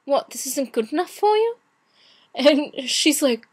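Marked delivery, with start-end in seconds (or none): 0.1-1.6 lightly put-on British accent. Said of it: "do my British accent".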